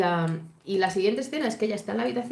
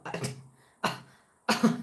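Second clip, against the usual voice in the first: offended indignation. Retold or imitated. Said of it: "como diciendo".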